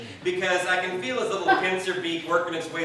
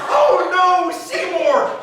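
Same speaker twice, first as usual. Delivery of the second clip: high, loud panicked cry of a name; shrieking; 12 semitones higher, 9 dB louder, much slower than usual. Retold or imitated. Owner shrieking at her bird attacking her date. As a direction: shriek the bird's name in alarm. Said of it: "She shrieks".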